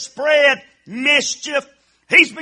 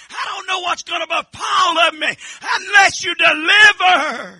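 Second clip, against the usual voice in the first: crying plea. Acted. Preacher cries out David's plea.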